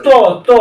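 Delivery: ত with the tongue on the teeth; dental ত. Shown as a demonstration. Teacher shows class the next group, dental ত. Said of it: "একে দন্ত বর্গ বলা হয়".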